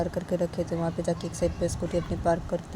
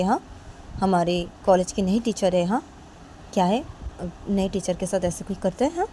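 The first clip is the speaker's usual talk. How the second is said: scolding rebuke; 2 semitones higher, 4 dB louder than usual. Acted. Principal scolds Kajal over the new teacher, louder rebuke. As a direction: reprimand her for hitting a teacher. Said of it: "वो principal बोलती कि".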